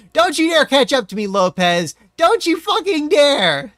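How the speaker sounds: high, loud threatening yell; furious warning. Real, not acted. Racer yelling at rival Lopez not to catch up, furious. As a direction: warn the rival off, fuming.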